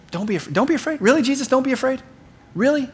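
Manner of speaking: high, disbelieving questions; incredulous. Acted. Peter questioning Jesus' reassurance, incredulous.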